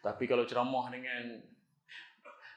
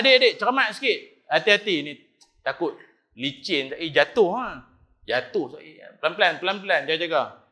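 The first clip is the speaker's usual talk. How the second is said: caring elder calling out a warning, louder; kindly warning call; 6 dB louder than usual. Acted. Imam Abu Hanifah warning a boy in slippers, caring and raised. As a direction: call gently but firmly to a child about to slip.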